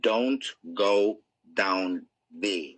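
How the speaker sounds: slow, drawn-out warning; inner voice warning. Retold or imitated. Inner voice warning someone in an alley, slow. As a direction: spell the warning out slowly, word by word. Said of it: "you hear a voice saying".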